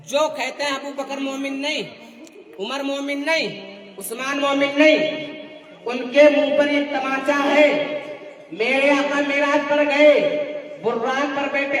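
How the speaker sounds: insistent rhythmic sermon argument; forceful preaching. Real, not acted. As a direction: drive each question home to the congregation. (ज़ोरदार तक़रीरी अंदाज़)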